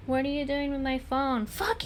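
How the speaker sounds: high cartoon squeak; squeaky good conscience. One conscience greeting chat, high squeak. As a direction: pipe it up in a tiny voice. Argument between two conscience voices.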